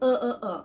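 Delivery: আ as three short 'uh' sounds; schwa demonstration. Shown as a demonstration. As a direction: sound each আ as a neutral 'uh'. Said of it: "এভাবে উচ্চারণ করেছি". (আ, আ, আ-কে 'uh' ধ্বনিতে উচ্চারণ)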